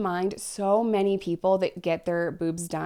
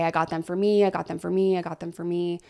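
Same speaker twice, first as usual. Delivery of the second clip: mock-insistent, repeating it; insistent repeated claim; faster than usual. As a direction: imitate women insisting, over and over. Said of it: "that say".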